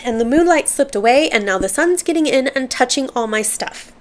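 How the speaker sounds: lilting, carefully phrased reading aloud; expressive quote reading. Acted. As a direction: read each witty line like a little aphorism. Reads out favorite tweets.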